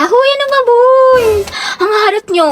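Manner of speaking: put-on high-pitched irritated whine at the boys; annoyed protest. Girl tells off rowdy boys, annoyed and high.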